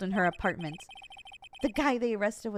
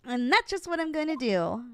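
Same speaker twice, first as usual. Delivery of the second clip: put-on high childlike voice; 5 semitones higher than usual. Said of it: "made him so high-pitched and small childlike".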